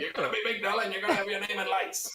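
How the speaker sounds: put-on high-pitched old-time New York accent. Imitating an old manager from the fifties: put-on old New York accent. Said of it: "an old manager from that time".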